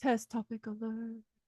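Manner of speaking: secretive, hushed half-whisper, like a stage whisper. Flagging a likely exam topic to the viewer: half-whispering. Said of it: "We're whispering it".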